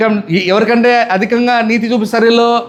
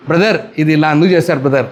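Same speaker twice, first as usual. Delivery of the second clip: gentle private rebuke; 6 semitones lower than usual. Retold or imitated. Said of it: "అని చెప్పడం".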